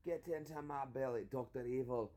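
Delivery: lightly imitated Scottish film character; Scottish accent. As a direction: put on a mock Scottish accent. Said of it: "Try a Scottish accent. Think Shrek".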